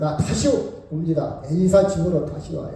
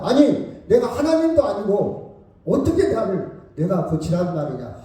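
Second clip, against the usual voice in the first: mock angry king; 3 semitones higher than usual. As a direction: act out a king's indignant protest. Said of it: "왕이 화를 냅니다". (화난 왕 흉내)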